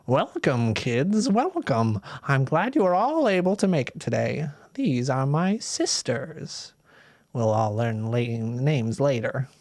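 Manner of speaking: lightly voiced old lady, welcoming but sly; a hint of a sugary witch greeting the kids; old lady welcoming guests, a little too sweet.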